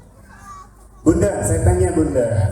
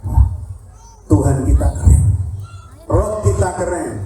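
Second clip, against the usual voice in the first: put-on awed child; 3 dB louder than usual. Child marvels at God's creation.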